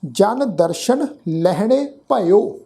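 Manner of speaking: slow, careful verse reading with pauses; slow recitation. Shown as a demonstration. Teacher showing the sangat how to recite. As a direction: lay out every word for listeners to copy.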